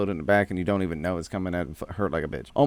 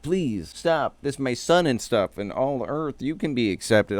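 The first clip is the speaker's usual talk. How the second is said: high, pleading beg; begging Goku; 5 semitones higher than usual. Retold or imitated. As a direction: beg him to stop in a raised voice. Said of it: "and I'm talking begs".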